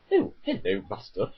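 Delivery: a hint of a polite protocol droid; C-3PO impression. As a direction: lightly put on fussy droid voice. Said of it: "with C three P O's voice".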